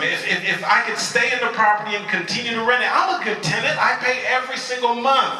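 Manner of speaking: resolved, with pitch climbing as it goes; mildly determined. Acted. Mom planning to keep her restaurant, mildly determined. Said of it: "And so my mom figured".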